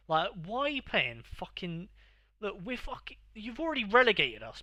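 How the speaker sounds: high, loud, exasperated complaining; exasperated rant. Real, not acted. Ranting at the friend over his team choice, high and loud. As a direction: rail at him in disbelief.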